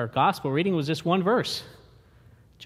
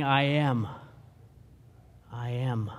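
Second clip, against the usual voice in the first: quiet; 5 semitones lower, 5 dB quieter than usual. Acted. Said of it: "Jesus is saying".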